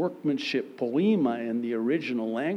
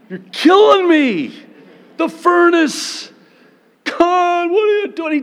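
anguished shout; 13 dB louder than usual. Acted. Believer in the kiln.

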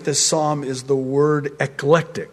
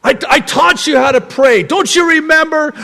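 mock exasperated teacher, rising higher and louder; imagined scolding Lord; 8 semitones higher, 4 dB louder than usual. The Lord imagined reminding Peter of his lessons, mock scolding. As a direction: scold a forgetful pupil, building. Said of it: "The Lord responding this way".

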